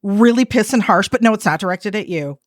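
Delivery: a caller calmly reassuring the agent it isn't her fault. Retold or imitated. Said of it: "And I'll be like".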